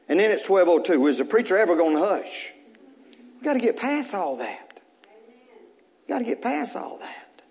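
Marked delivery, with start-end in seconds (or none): 3.4-4.8 softer. Shown as a demonstration. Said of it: "repeated, fading". 6.1-7.4 quieter, fading. Shown as a demonstration. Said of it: "repeated softer".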